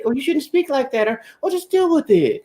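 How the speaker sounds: mock ladies. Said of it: "all the ladies, they ... out here".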